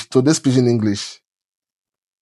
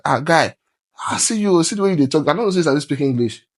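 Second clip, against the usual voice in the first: raised, teasing voice of a friend; 4 semitones higher than usual. Retold or imitated. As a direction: tease him about his English, higher. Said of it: "Then she was like".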